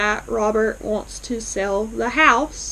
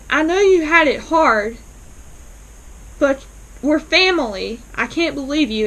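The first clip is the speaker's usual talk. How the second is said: pleading; 4 semitones higher, 3 dB louder than usual. Retold or imitated. Aunt Sarah pleading with Robert.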